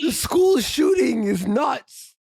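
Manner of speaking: high mock-excited shout; mock hype. Co-host parodying clickbait headlines, mock hype. Mocking a hyped clickbait title.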